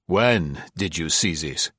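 mildly doubting question; incredulous demand. Acted. General questions Marie, still incredulous. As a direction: question her with restrained incredulity. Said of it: "Still in a tone of incredulity".

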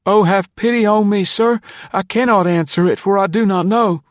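put-on high, loud, tearful boy begging for pity; distraught high-voiced pleading; sobbing plea. A narrator's reading. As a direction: plead desperately at a high pitch through acted sobs. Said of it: "forced the words out between his sobs".

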